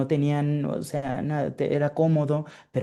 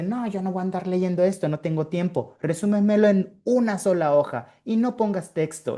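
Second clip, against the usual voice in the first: higher-pitched, mildly exasperated boss refusing the report; impatient boss; 6 semitones higher than usual. Retold or imitated. Japanese boss to Mexican subordinate over a text-heavy report, impatient. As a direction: voice a boss brushing off a wordy report. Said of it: "su jefe japonés ... y me dice".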